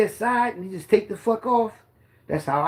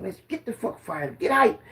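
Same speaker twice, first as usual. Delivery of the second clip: hyping up the team; 2 semitones higher than usual. Retold or imitated. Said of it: "I'm like".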